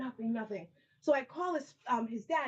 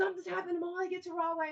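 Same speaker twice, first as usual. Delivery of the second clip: put-on scream, pitched higher; 5 semitones higher than usual. Retelling a phone call about Molly: imitating someone screaming. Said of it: "someone's screaming".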